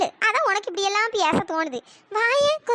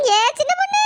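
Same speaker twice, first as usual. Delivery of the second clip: high wailing call with long sobbing tail; crying out in grief; 5 semitones higher, 4 dB louder than usual. Acted. Mourner calling to a dead friend, crying out in grief. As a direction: cry the name out and break into sobs. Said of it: "அடுத்து அழுது கிடக்காவே".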